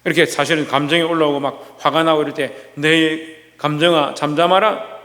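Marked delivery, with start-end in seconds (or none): 2.7-5.0 calm self-command. Shown as a demonstration. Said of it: "명령해야 되는 거예요".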